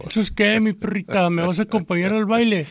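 slow cool street drawl. Retold or imitated. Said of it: "una frase que usan mucho ahora los chavos".

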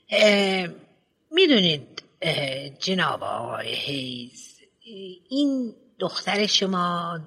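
lightly voiced headmistress, hesitant and prim; a hint of a prim school head choosing words; fussy headmistress. Headmistress explains Dolly's trouble.

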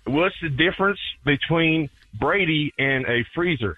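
slow Southern accent. Shown as a demonstration. Caller poses his riddle to the hosts in a slow Southern accent. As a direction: ease through it in a put-on Southern accent. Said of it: "I'll do it in a Southern accent".

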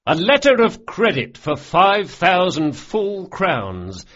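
grand proclamation. A narrator's reading. Locke boasting of the score to his crew, proclaiming. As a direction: savour every word of the triumph.

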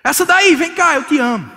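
preacher mocking a husband calling his wife that; mock sweet talk. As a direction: ham up a romantic line that clashes.

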